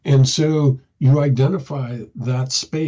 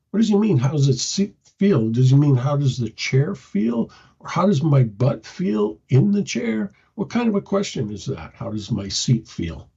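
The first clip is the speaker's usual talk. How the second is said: confused inner voice. Retold or imitated. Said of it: "the person's unconscious mind is going".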